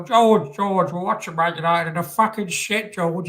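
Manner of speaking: high, squawky puppet voice calling out; nagging puppet pestering his friend; Zippy impression. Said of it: "That's my Rainbow impression there".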